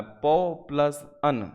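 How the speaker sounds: पो plus अन said slowly, part by part; slow split reading. Shown as a demonstration. Teacher to students splitting पवन, slowly. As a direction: dictate the parts slowly. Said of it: "तब आपको ओ लगाना है".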